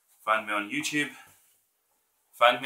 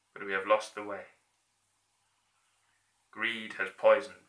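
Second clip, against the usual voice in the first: heartfelt plea, held back; dictator speech. Acted. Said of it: "that version of his speech".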